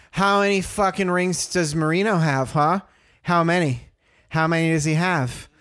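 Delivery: mild mock jeer; drunk fan taunt. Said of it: "she's like".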